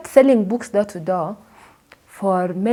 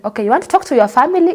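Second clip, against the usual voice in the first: generous host; 5 semitones higher, 4 dB louder, much faster than usual. Retold or imitated. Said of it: "She said".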